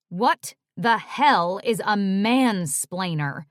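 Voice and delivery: slow, loud and contemptuous; angry agent demanding an explanation; spat. Acted. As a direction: spit the question out. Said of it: "my high-powered agent spat".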